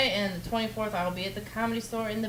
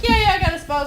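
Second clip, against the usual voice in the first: much higher, breezy imitation of a friend; mock casual friend voice; 12 semitones higher, 3 dB louder, faster than usual. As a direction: toss it off like a laid-back buddy. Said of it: "was gonna be like".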